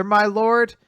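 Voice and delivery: imitated startled question, sharply rising; acted disbelief. Witch answers being called his mother, acted disbelief.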